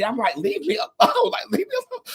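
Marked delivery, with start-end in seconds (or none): 0.4-1.3 whiny plea. Retold or imitated. Fed-up plea to pestering man. 1.5-2.0 whiny plea. Retold or imitated. Fed-up plea to pestering man.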